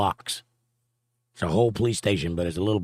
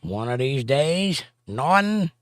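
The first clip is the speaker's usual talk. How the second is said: Ralph Kramden impression; 5 semitones higher, slower than usual. Honeymooners catchphrase.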